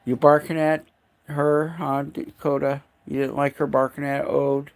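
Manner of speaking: high, teasing voice for the dog. Real, not acted. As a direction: gently tease the dog about barking. Scolding the dog playfully.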